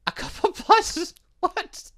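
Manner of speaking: high stunned shriek breaking into a laugh; shocked disbelief. Real, not acted. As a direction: squeal it in pure disbelief. Shocked at blood request.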